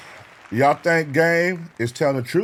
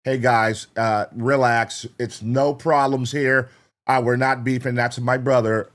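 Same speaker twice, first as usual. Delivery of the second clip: mock soft rapper; slower than usual. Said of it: "That's not Chuck. He ain't finna talk like that".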